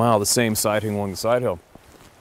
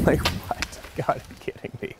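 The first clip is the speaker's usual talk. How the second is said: whispered, higher disbelief after a laugh; stunned whisper; 6 semitones higher, 5 dB quieter than usual. Retold or imitated. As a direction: breathe it out, unable to believe the miss. Disbelief at a missed shot.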